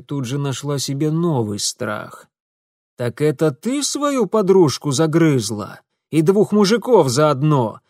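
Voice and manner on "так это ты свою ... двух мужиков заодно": loud, angry bark. A narrator's reading. Mitya barking accusations at the girl, louder. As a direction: snap accusations at her. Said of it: "рявкнул Митя".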